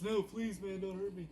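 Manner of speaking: hammed-up frightened plea; mock begging. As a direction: squeal for mercy in a put-on panic. Retelling Jimbo begging Mo.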